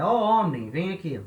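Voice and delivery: demonstrating a vocative call. Shown as a demonstration. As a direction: call to someone to come over. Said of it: "ele é um chamamento".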